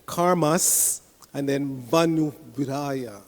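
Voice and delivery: "Karmas" held on the s, then "Vanu" begun with v; "Vanu" led by a v sound; sandhi split shown. Shown as a demonstration. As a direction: stop on "Karmas", start afresh on "Vanu". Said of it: "you run those two words together".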